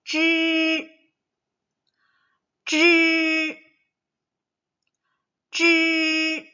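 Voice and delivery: high, loud 쯔 with tongue curled up, three times; retroflex drill. Shown as a demonstration. Teacher drilling retroflex 쯔 for children to repeat. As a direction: curl the tongue and say 쯔. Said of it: "따라 해볼 거예요".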